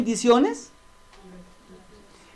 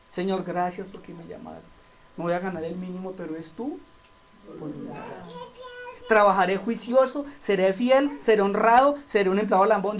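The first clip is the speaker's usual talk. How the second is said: humble prayer; 3 semitones lower than usual. Retold or imitated. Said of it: "sea humilde".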